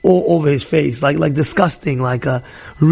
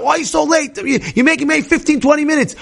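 higher, irritated scolding of a late wife; a mock husband snapping at his wife, pitched up; husband flipping out; 7 semitones higher than usual. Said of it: "now he's flipping out".

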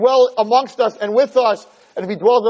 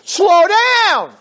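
mock wife yelling; 6 semitones higher than usual. Wife in front seat scolding speeding husband, mock yell. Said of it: "is screaming in the front seat".

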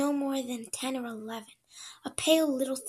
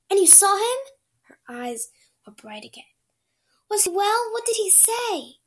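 higher, eager questions; 8 semitones higher, 9 dB louder than usual. Acted. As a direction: ask with bright hope. Eager girl asks about father.

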